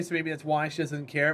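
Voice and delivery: ordinary talk, nothing marked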